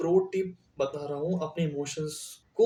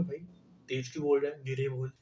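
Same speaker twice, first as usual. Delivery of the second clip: soft, lowered demo of speaking calmly; low voice; 4 semitones lower, 6 dB quieter than usual. Shown as a demonstration. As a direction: drop the voice, softer and lower. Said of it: "मैं धीमी आवाज़ में बोलूँगा कि".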